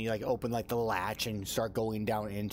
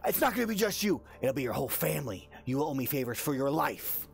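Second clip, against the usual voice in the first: angry cursing; faster than usual. Acted. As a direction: lay down a threat in acted anger. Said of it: "it gets louder and louder".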